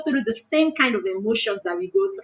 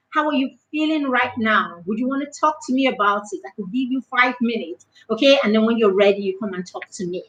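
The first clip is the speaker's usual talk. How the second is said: soft, slightly lowered coaxing voice; gentle parent; 3 semitones lower, 4 dB quieter, faster than usual. Acted. Mother offering her child time before talking, gentle and soft. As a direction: invite the child to open up, without pressure.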